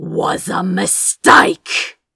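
rough snarl with each word clearly enunciated. Narrating fiction, Crow rises and turns on Lord Beals, snarling, enunciating each word. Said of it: "Crow snarled at Lord Beals, enunciating each word".

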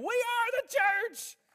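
play-acted piercing, slow preacher scream, very high. Retelling how a college professor ended sermons: imitating a professor screaming. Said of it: "he was screaming".

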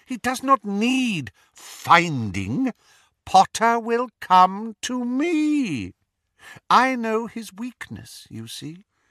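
very high, clear voice with "me" stretched. Addressed as lord by a follower, he answers in a high, clear voice. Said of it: "the flattened serpentine face, the pallor of him gleaming slightly in the semi-darkness. ... said the speaker in his high, clear voice".

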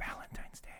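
whispered, breathy, sultry put-on sexy voice. Told to say it in their sexy voices, put-on seductive voice. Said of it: "in our sexy voices".

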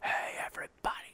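soft whispered delivery.

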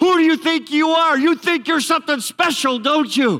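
high-pitched, furious, ballistic screaming rant. Retelling a lady screaming at Teresa from a car, imitating someone screaming. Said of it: "she starts screaming at her".

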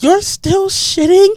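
mock high, shrill scolding yell. Retelling how she yelled at him over the trash can: retelling her yelling. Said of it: "she was like yelling at him".

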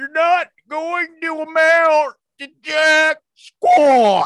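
very loud, high, slow yell, stretching out "squat". Doing an impression for the mic: Chris Farley as Matt Foley. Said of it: "this is my Chris Farley impression of him doing Matt Foley".

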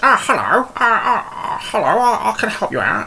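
very high, squeaky, swooping, sing-song silly voice. Speaker recalls voicing an unnamed bar character, in a stupid Gob voice. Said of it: "he had a stupid voice".

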